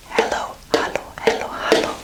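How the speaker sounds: hello with e, then hallo with open a; English then German. Shown as a demonstration. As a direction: contrast hello and hallo in turn. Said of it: "this is the first word".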